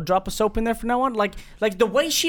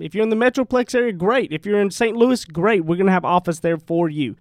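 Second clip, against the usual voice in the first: loud, upbeat sponsor announcement; ad read; 2 semitones lower, 3 dB louder than usual. Acted. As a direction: pitch it like a radio ad. Sponsor ad read mid-podcast.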